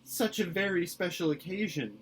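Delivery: a mild tearful plea; mournful, near tears. A narrator's reading. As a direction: mourn it, close to crying. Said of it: "mourned Anne, on the verge of tears".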